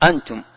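"أنتم" opening on one hamza and a long aa; second hamza becomes alef. Shown as a demonstration. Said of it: "تنطقها ألف". ("أنتم" بإبدال الهمزة الثانية ألفًا)

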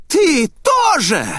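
high, loud, slow accusing scream; furious slow scream. Acted. Possessed Ryoka screams at her younger sister. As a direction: drag out the threat.

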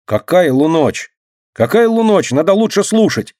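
high, loud irritated retort; annoyed boy. A narrator's reading. Gogа snapping at Dinka for not listening, irritated. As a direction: scold her for not listening. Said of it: "рассердился Гога".

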